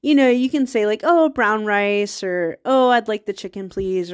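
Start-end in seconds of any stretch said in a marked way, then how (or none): 1.0-4.1 slow, courteous food order; lightly acted polite customer. Shown as a demonstration. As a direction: ask the server nicely, unhurried. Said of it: "You can say it like that".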